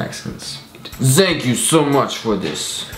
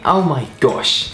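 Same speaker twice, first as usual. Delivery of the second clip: put-on posh British accent; slower than usual. Friend asks about last night's telly, posh British accent. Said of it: "British posh".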